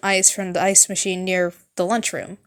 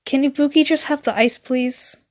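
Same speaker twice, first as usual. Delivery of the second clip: put-on higher girl voice; 4 semitones higher than usual. Ibuki voiced, asking for ice.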